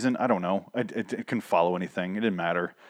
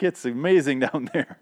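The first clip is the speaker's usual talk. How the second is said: mildly imitated excitement, slightly higher; excited; 4 semitones higher than usual. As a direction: retell it with a touch of clapping glee. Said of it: "all excited, like, clapping".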